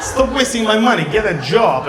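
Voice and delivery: mock scold a dad like he scolded you; playfully berating the old man; lightly voiced parent telling off a kid. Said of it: "do like this".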